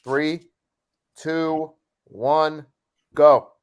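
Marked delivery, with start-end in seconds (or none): 3.1-3.5 loud. Real, not acted. Starting the timer countdown.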